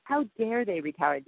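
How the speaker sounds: hammed-up self-righteous huff; mock indignation. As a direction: act the offended old self. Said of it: "my reaction to that is".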